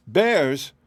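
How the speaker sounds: a touch of startled disbelief; startled exclamation. A narrator's reading. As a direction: exclaim in sudden alarm. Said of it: "exclaimed Dorothy".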